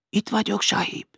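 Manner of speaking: put-on high-pitched girl's voice; high, meek reply; servant girl. A narrator's reading. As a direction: answer the master's call in a high voice. Servant girl answering her master's call.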